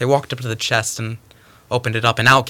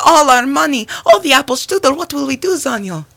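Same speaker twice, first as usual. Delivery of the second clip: high wailing lament, easing at the end; panicked cry; 7 dB louder than usual. Acted. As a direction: wail over the loss at top pitch. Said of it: "cried Zelda".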